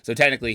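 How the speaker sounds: "technically" leaned on a little; stress on technically. Real, not acted. Conceding a friend's quiz win, stress on "technically". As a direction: put the emphasis on "technically". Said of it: "Emphasis on technically".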